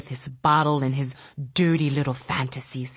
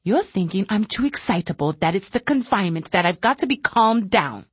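agitated fear; 3 semitones higher than usual. Acted. Telepath pleading with Caroli, pitched up in fear. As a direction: plead it in rising panic.

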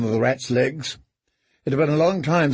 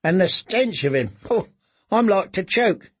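disgusted; 5 semitones higher than usual. Acted. Boy disgusted by stench.

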